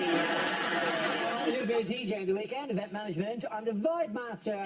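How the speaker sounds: Welsh DJ bragging, hammed up; lightly done Welsh DJ voice; Welsh accent. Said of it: "You keep doing that Welsh accent".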